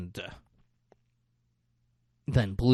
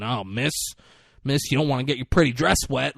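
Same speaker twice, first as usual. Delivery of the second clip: mock condescending; 3 semitones higher, 4 dB louder, faster than usual. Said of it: "That fucking condescending tone".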